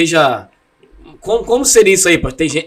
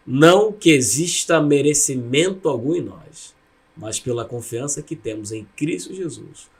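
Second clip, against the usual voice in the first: imitating formal prayer; 3 semitones lower than usual. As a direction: murmur it like a memorized church formula. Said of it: "Aí era assim, ó".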